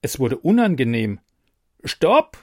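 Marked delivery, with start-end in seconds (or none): 1.8-2.4 high, loud stop shout; loud cry. Acted. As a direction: call out in alarm, much higher and louder. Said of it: "rief Brigitte".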